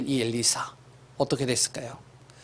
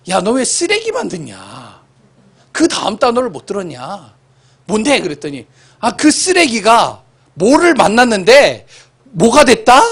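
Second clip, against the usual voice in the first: father scolding, louder; 7 semitones higher, 8 dB louder than usual. Retold or imitated. Father scolding child in retelling.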